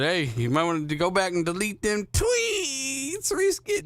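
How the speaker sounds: slow, wailing mock shout; half-joking crying call to Risket. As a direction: wail the warning like a hammed-up plea. Warning Risket in a mock cry.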